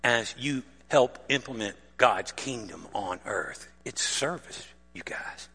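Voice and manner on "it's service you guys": whispered punchline of the sermon; hushed point. Real, not acted. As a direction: drop to a whisper to land it. Preacher drops to intimate hush.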